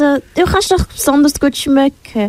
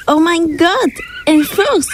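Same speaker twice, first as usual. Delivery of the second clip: shocked gasp; 4 semitones higher, slower than usual. Acted. Sees a fox, alarmed.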